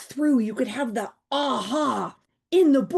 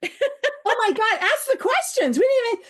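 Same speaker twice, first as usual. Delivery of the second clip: high, laughing oh my God; laughing dismay; 10 semitones higher than usual. Real, not acted. Realizing with the host they skipped the questions, laughing high.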